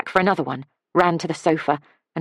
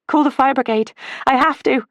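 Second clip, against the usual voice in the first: urgent shout; 9 semitones higher, 5 dB louder than usual. A narrator's reading. Insisting before running back in.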